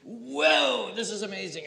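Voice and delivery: high, delighted whoa; excited whoa. Shown as a demonstration. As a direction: burst out amazed. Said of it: "when we want to just say to somebody".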